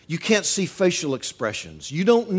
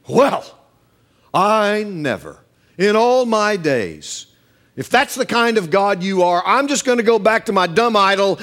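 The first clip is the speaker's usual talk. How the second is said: louder, huffy offended woman; mock indignant; 3 semitones higher, 4 dB louder than usual. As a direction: play a woman taking offense. Imagined offended woman retort.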